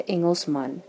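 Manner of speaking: "Engelsman" said the Afrikaans way; Afrikaans pronunciation. Shown as a demonstration. Teacher contrasts Afrikaans with English, Afrikaans pronunciation. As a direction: give "Engelsman" its Afrikaans vowels. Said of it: "in Afrikaans we say".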